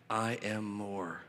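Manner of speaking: slow, low and hushed; Paul. Acted. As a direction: say it reluctantly, barely voiced. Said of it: "the humility and the discomfort".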